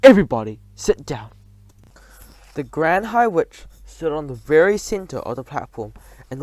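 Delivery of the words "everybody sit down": loud bark of an order; command. A narrator's reading. Witch ordering the witches to sit, barked. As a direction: order them down.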